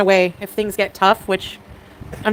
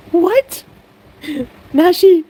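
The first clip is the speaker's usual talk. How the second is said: high, loud cry of joy; excited squeal; 9 semitones higher, 5 dB louder, much slower than usual. Real, not acted. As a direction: shriek with delight at the news. Discovers the limited sandwich.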